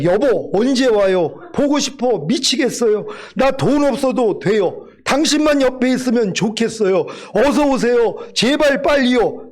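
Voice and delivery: a hint of a wife missing her husband, begging him home; longing wife. Preacher voicing a wife who longs for her husband, mild pleading. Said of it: "이런 소리일까요?".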